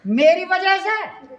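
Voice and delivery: embarrassed wife. Acted. Wife realising the perfume is for her, high and laughing. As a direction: squeal it out, half laughing.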